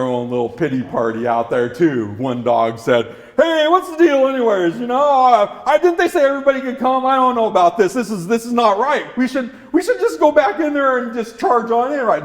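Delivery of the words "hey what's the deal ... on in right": grumbling dog. Acted.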